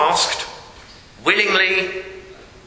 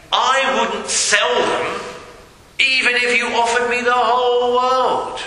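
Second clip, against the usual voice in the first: earnest declaration; 5 semitones higher than usual. Acted. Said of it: "that you would say".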